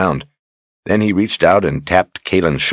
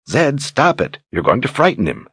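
scolding; 8 semitones higher than usual. Acted. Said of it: "she scolded".

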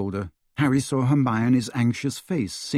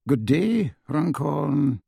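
higher, lofty farewell; pompous minister; 4 semitones higher, much slower than usual. A narrator's reading. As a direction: dismiss him from on high. Thickness dismisses Harry.

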